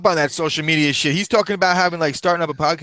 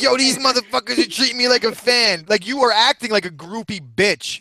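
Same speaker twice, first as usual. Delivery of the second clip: imitating Malignaggi; 6 semitones higher than usual. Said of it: "And he was like".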